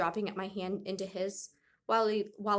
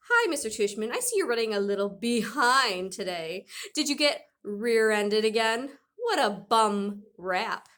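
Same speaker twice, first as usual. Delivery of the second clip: lightly voiced old lady, slowing at the end; a dad teasing in a mock old lady voice; fake old lady voice; 2 semitones higher, 6 dB louder, slower than usual. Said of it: "fake high old lady voice".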